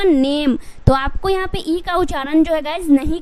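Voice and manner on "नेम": नेम said as one syllable, silent e; नेम with the final e silent; correct pronunciation. Shown as a demonstration. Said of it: "ई का उच्चारण अगर नहीं करोगे". (नेम, ई मौन)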